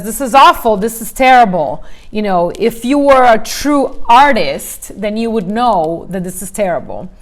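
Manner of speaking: loud, cutting critique of a student's painting; harsh teacher scolding. Retold or imitated. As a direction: tear the student's work apart, loudly.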